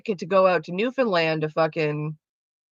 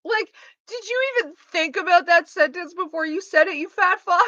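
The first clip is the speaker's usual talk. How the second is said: much higher, raised, sneering attack; angry retort; 9 semitones higher than usual. Retold or imitated. Daughter keeps laying into her dad, angrily sneering. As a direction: hurl the insult right at him. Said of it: "sitting there in the back seat like".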